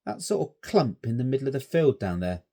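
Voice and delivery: a curious scout staring into the distance; young Stanley wondering aloud; schoolboy voice. A narrator's reading. Boy Stanley voiced in story.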